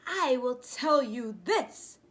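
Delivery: lightly voiced secretive father; dad's voice. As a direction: dole it out slowly as dad. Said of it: "he said".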